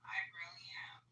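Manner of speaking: breathy whisper, barely voiced; whispered aside. Real, not acted. Friend whispers agreement about being happy, hushed. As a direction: drop to a whisper to mean it.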